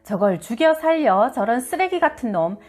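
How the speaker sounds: mildly acted angry scolding; seething scolding. Mother fuming at her disrespectful teenage son, seething scolding. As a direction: scold with rising exasperation. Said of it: "피가 거꾸로 솟는 것 같았다".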